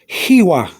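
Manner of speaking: "hiwa" said as HEE-wah; pronunciation demo. Shown as a demonstration. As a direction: model "hiwa" as one clear word. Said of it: "You can say".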